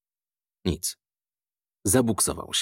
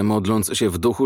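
usual speaking voice

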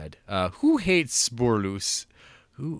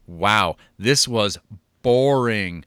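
mock reading; 4 dB louder than usual. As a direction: read it out with mock outrage. Reading a silly review mockingly.

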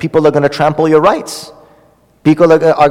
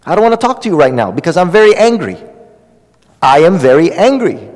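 calm firm. Shown as a demonstration. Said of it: "Just walk away".

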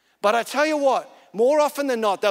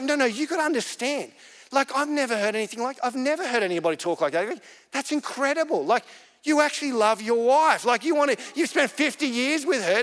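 put-on a touch higher, marvelling at the old man; amazed disbelief; 3 semitones higher than usual. Woman amazed at an old man's devotion, mildly incredulous. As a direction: retell her mild astonishment. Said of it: "Like, she was floored".

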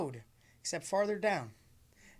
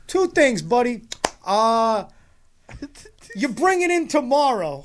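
mock mechanic; 5 semitones higher, 6 dB louder than usual. Mimicking mechanic.

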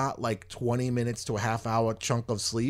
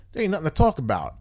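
louder, fast, mildly heated retort; fed-up retort; 4 semitones higher, 4 dB louder, faster than usual. Retold or imitated. Patient refusing the machine to the nurse, mildly heated. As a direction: shut her down, mock indignant.

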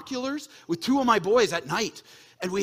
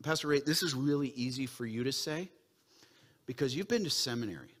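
voicing a doubting listener; 2 semitones lower than usual. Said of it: "you may say this".

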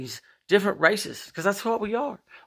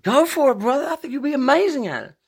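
encouraging friend; 11 semitones higher than usual. Retold or imitated. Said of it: "Instantly encouraging".

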